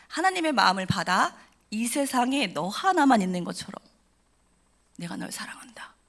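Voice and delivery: slow, hushed, ending in a whisper. Shown as a demonstration. Speaker repeating the pastor's words to listeners, slow hushed whisper. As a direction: savour each word, then whisper. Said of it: "repeated pastor's words".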